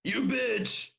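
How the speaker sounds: high, harsh undead shout. A narrator's reading. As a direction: spit it out at her in fury. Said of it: "Dead Dale Pearson shouted".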